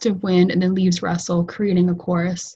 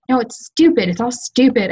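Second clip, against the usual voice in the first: upset outburst; 5 semitones higher than usual. Acted. Nora upset, holding back tears.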